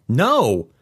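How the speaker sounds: sudden high-pitched refusal; a touch too loud, startled by yourself. A narrator's reading. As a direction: blurt it out, pitch jumping up. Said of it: "I'm louder than I expect".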